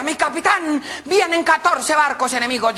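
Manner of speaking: high, drawn-out lookout's cry; acted sailor's hail; shouted alarm. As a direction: call out to the captain in warning. Lookout calls alarm again.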